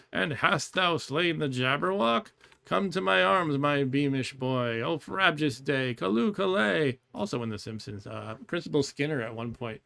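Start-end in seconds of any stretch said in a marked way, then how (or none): 0.1-7.0 slow, lifted poem reading; poem recitation. Acted. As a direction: recite the father's joyful lines.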